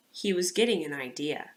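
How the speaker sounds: lively storybook read-aloud voice; reading to children. A narrator's reading. Teacher reading a picture book to her class, lively storybook voice. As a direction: read it like story time for kids.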